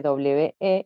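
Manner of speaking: "we" said as one syllable, "wee"; pronunciation demo. Shown as a demonstration. Teacher showing students the plural pronoun, "we" pronounced "wee". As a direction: model "we" clearly as "wee". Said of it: "se pronuncia".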